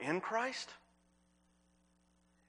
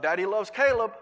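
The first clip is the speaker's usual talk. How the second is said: mock yell across the room, higher and louder; 4 semitones higher, 8 dB louder than usual. Father calling to his son across the room, retold playful yell. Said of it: "David would yell out".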